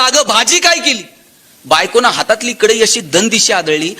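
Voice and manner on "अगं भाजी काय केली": higher-pitched, mild mock yell; half-hearted yell, raised in pitch. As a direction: act out shouting at his wife. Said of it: "आणि जोरात ओरडला".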